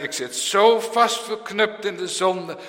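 imitating young people. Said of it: "jonge mensen die zeggen".

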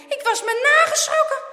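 high, loud exclamation; emphatic, relieved outburst; shaken relief. A narrator's reading. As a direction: blurt out how scared you were. Friend exclaims after the scare.

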